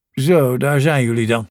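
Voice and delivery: put-on dark, lisping growl of an old leader; lightly voiced gruff old statesman; Churchill's growl. A narrator's reading. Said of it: "gromde Churchill met de donkere, lispelende stem".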